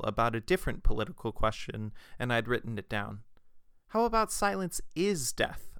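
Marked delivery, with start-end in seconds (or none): 3.9-5.7 lightly voiced Southern accent, tossing out an idea; Oliver's idea called out in a light Southern accent. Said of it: "how this phrase sounded in his southern accent".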